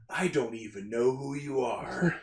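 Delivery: slow, dismissive, a touch laughing. Retold or imitated. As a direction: shrug him off coldly. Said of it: "he answers".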